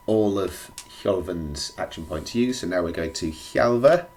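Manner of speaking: hoarse and croaky from a cold; croaky voice, feeling rough. Real, not acted. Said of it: "Excuse my croaky vo-, voice".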